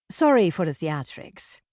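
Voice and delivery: put-on gentle, lilting Irish accent; a light Irish accent; soft Irish accent. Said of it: "she said in a soft Irish accent".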